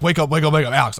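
quick mock-urgent repeated wake-up call. Roommate waking his friend at three A M, urgent.

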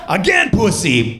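put-on slow, high German-accented demand; imitated insistent German accent; mock German accent. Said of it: "in her German voice".

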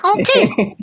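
very high, hammed-up Zimbabwean accent. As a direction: lay down a mock challenge in Zimbabwean accent. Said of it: "facing Thanos with a Zim accent".

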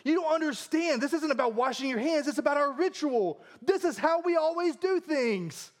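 high-pitched indignant protest; freaking out. Acted. Pharisees objecting to Jesus over their ritual, freaking out. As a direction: plead the rules in a mock panic, pitched well up. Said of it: "they're freaking out because they're like".

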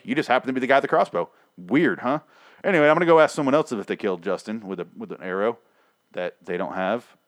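mock innocent accusation. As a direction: pretend you suspect nothing while pointing fingers. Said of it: "went exactly like that, word for word".

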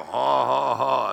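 imitated loud, drawn-out haw-haw; mocking laugh. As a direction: mimic the people making fun of you. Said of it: "make fun of me".

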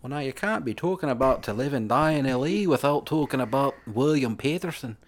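lilting, wobbly stab at Geordie; mock Geordie chat; attempted Geordie accent. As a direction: ramble on in a bad Geordie accent. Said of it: "trying to do a Geordie accent".

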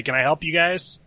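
loud in-character offer of help; calling out in character. Acted. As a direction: call over to them loudly. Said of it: "I look at them and I say".

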